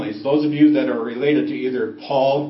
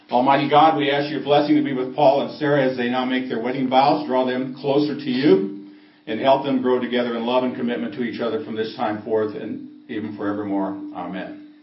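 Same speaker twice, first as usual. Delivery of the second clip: prayer. Acted. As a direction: pray it out over the congregation. Officiant prays at wedding.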